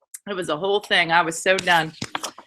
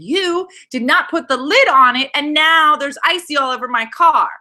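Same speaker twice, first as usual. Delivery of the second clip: angry scolding, retold; 5 semitones higher, 3 dB louder than usual. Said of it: "I am about to lose my mind".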